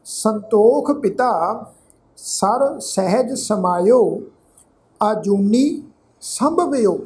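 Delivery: slow, phrase-by-phrase recital with long pauses; measured scripture recitation. Real, not acted. Teacher reciting gurbani to the sangat, slow and measured. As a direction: recite each phrase deliberately, letting it settle.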